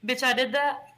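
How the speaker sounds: unvoiced disbelieving whisper; hushed stunned question. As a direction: whisper it, amazed at yourself. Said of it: "Samantha was like".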